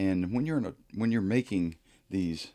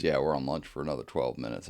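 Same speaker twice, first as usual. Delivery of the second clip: mildly gruff, low and quick; low, hurried brush-off; 5 semitones lower, faster than usual. Retold or imitated. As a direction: imitate a curt, gruff worker in a lower voice. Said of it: "in a very gruff way".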